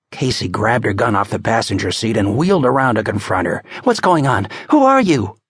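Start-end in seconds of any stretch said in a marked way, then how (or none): 3.8-5.4 a hint of a tense cop, rising sharp; demanding cop. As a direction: confront her, gun drawn. Casey confronting with gun.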